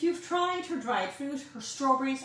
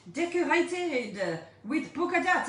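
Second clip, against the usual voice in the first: slow put-on French accent; 3 semitones higher than usual. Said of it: "I'm putting on a French accent".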